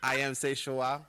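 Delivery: loud laughing claim; laughing insistence. Real, not acted. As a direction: insist through a laugh, half joking. Proud claim, live on TV.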